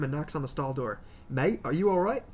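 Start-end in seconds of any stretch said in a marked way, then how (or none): 1.3-2.2 lightly put-on Australian accent. Stranger knocking on the stall door, mild Australian accent. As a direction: give it a casual Australian lilt, questions rising. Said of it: "Is that your Australian accent?".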